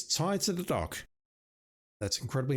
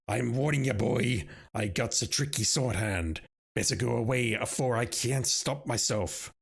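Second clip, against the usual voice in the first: put-on snarling old sailor. Old sailor threatening the pestering player, in a hammed-up snarl. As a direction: warn him off like a menacing old salt. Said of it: "he snarls".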